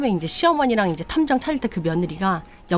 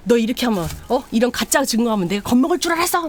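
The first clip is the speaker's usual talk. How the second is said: raised, indignant challenge; angry retort; 4 semitones higher, 3 dB louder than usual. Retold or imitated. Husband confronting his cheating wife, indignant and raised. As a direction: throw the accusation back at her.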